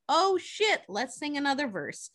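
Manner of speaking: mock overjoyed hosts; hammed-up party excitement; sudden glee. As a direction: jump up high with delight. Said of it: "are like".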